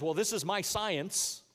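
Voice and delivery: slow, drawn-out mock quote. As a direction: drag it out like a silly excuse. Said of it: "notice how nobody says".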